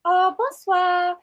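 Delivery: put-on French accent. French character in improv debate.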